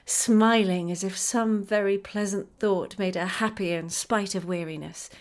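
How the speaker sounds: plain reading voice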